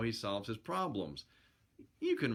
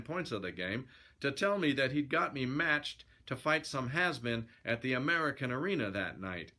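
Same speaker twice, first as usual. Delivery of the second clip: lively yarn-spinning narration; storyteller reading aloud; story narration; 2 semitones higher than usual. A narrator's reading. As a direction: read it as a colloquial sailor's yarn.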